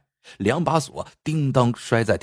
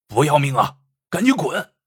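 cursing. Acted. Bandit curses the bleeding Lu Dui to scare him away. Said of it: "骂道".

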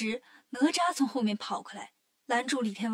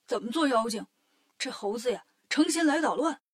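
angry rant; 3 dB louder than usual. Acted. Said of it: "气得直摇头".

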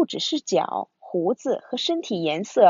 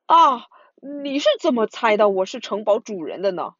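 startled. Acted. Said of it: "怪物吓了一跳".

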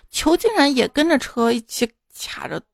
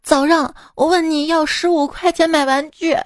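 higher, indignant accusing, slowing at the end; angry child; 5 semitones higher than usual. Retold or imitated. Grandson scolding grandpa for lying about money, angry. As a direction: call him a liar in a childish huff. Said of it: "我当即就生气了".

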